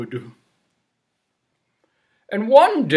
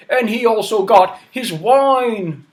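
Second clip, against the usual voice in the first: plain reading voice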